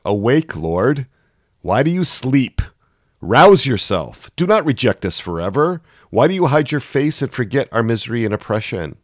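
insistent, accusing plea; angry prayer. Acted. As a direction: rouse a sleeping God with anger. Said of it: "You can hear the anger behind".

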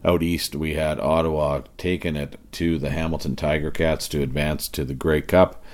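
hoarse from cheering at the game; rough, strained raspy voice. Real, not acted. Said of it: "raspy voice I got going on tonight".

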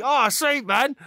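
mock cheerful, pitched high; friendly delight. Retelling a stranger's photo turning pleasant, high delighted mimicry. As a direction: switch from angry to pleased. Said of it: "like, angry to".

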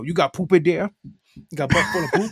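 put-on dopey man-child voice; Billy Madison voice. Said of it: "like a Adam Sandler-ish Billy Madison".

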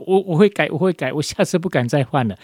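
imitating a scolded kid swearing to behave; promising child. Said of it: "特别就会讲说". (挨打的小孩向妈妈保证会改，带点夸张的哀求)

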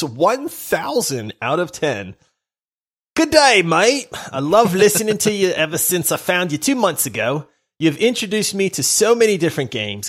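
bad Australian accent slipping into British; terrible Australian accent. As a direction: read it in a hammed-up Aussie accent. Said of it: "that terrible, terrible accent".

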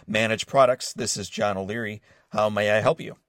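polite office phone greeting; lightly voiced polite receptionist; professional phone voice. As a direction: answer like an eager intern. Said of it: "in my most professional voice".

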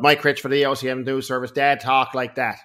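hint of a Newfoundland townie twang; towny twang. Son mimicking his radio newsman father, light townie twang. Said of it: "you know, real towny twang".

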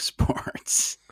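breathy unvoiced whisper, deadpan. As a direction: whisper the word like a secret. Joking about favorite subject.

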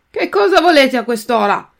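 grida irritato, più alto e forte; un vecchino svegliato di notte che sbraita; grido stizzito. Acted. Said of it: "gridò tutto stizzito". (il vecchino dalla finestra grida stizzito a Pinocchio)

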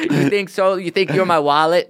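rapper impersonation pitched high; rapper impression. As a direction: answer in the star's put-on high voice. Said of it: "that's a good Drake impression".

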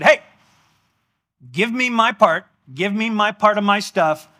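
mock bratty son; demanding younger son. Younger son demanding his share.

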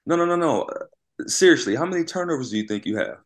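a hammed-up coach pressing for an answer; imitating the coach. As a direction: mimic the coach needling him. Coach voiced in a story.

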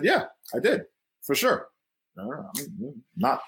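put-on high squeaky kid blurting then backing down; child voice. Kid caught by his mom, squeaky and guilty. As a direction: play the guilty five-year-old, squeaking yes then no. Five-year-old me caught, backpedaling.

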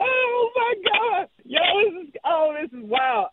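high, breathless excitement; giddy anticipation. Real, not acted. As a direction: gush like a starstruck fan. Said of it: "I'm giddy right now".

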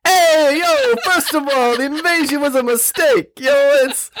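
hammed-up New York politician, very high-pitched shout; Andrew Cuomo. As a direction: holler it like a cartoonish New Yorker. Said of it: "try to read it like Andrew Cuomo".

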